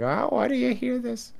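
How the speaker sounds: put-on very high, rambling old-woman voice. Joking about rambling on streams, rambling like an old Jewish woman. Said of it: "ramble like a, like an old Jewish woman".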